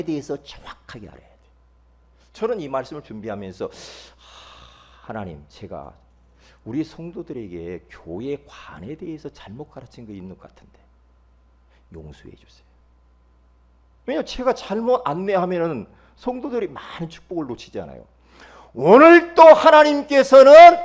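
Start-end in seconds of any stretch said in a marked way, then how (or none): 3.7-12.7 sighing, low and hushed confession; retold quiet plea; penitent prayer. Retelling a private prayer of repentance. 18.7-20.8 very high, loud, slow cry from the pulpit; booming sermon declaration; preaching proclamation. Real, not acted. Preacher suddenly proclaims at full force.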